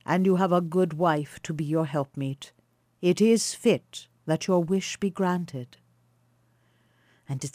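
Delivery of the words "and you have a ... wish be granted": a touch of solemn kindness, unhurried; kindly old stranger. Acted. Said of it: "he said to Philemon".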